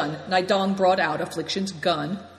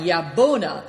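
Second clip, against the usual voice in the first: a louder cheerful call; merrily crying; 6 dB louder than usual. A narrator's reading. A boy cheerfully urging his horse on, merrily crying. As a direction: sing it out happily. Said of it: "merrily crying".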